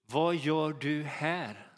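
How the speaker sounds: slow, grave voice of God; God's voice. Retold or imitated. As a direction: ask it slowly, like God calling him out. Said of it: "Gud säger till honom".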